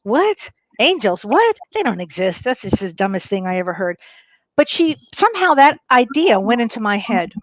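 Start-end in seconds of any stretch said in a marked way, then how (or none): 0.0-4.0 incredulous disbelief. Retold or imitated. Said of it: "And I was like".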